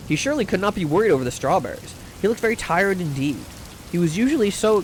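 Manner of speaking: audiobook-style reading with light dialogue; story narration. A narrator's reading. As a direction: read it aloud like a genteel short story. Reads a short story aloud.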